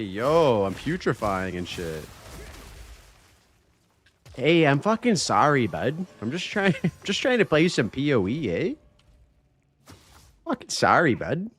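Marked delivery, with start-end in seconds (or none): 4.4-8.7 lilting, put-on Canadian accent. Streamer jokingly apologizing to chat in a Canadian accent. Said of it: "imagine if I had the hardest Northern Canadian accent". 10.4-11.5 lilting, put-on Canadian accent. Streamer jokingly apologizing to chat in a Canadian accent. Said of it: "imagine if I had the hardest Northern Canadian accent".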